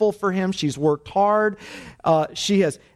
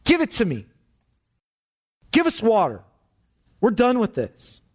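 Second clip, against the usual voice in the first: demanding people; 4 semitones higher than usual. Retold or imitated. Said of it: "that doesn't sound like".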